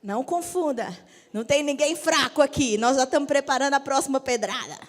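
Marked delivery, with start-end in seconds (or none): 1.3-4.8 mock threat. Joking threat after calm women point.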